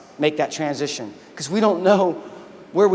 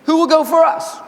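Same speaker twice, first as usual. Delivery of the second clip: lifted higher, slow and solemn, a calling voice; a booming higher call as the Lord seeks a volunteer; 7 semitones higher than usual. Retold or imitated. The Lord asks who will go, called out high and slow. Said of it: "I heard the voice of the Lord saying".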